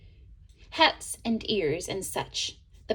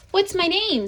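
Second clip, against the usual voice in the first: eager question; 9 semitones higher, 5 dB louder than usual. A narrator's reading. New paintbrush character asks.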